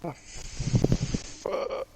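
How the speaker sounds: breathy startled whisper. Real, not acted. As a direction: hush it out in disbelief. Whispers in eerie build.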